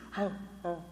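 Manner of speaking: soft, lightly voiced ho ho of shame; a hint of ashamed crowd moaning; ashamed men lamenting. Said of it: "they do this".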